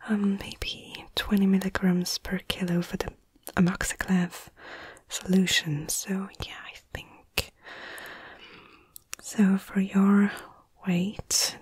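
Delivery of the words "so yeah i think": very soft, half-whispered murmur; thinking aloud. Acted. Medic working out a dosage, murmuring to self. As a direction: mumble it to yourself, barely voiced.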